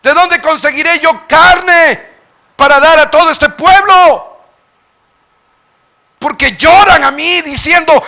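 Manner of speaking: high, loud, slow wail of despair; despairing lament. Acted. Preacher voicing Moses begging God for relief, wailing. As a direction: drag out the complaint, worn down.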